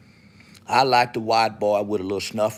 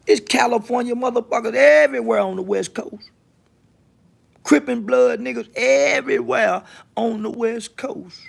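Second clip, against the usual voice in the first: high, loud proclamation; loud boast; 13 semitones higher, 8 dB louder than usual. Real, not acted. Boasting of walking alone on the West Coast, loud and high. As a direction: shout it out high and drawn across the line.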